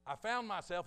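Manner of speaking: loud, high retold testimony; bewildered testimony.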